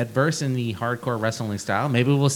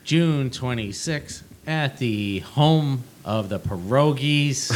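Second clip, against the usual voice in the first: slow, bored ring announcer read; unenthusiastic ring announcer; slower than usual. Acted. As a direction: announce it like you don't care. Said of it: "your most unenthusiastic ring announcer voice".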